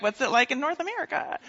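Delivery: snarky retort. Retold or imitated. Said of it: "A little snarky".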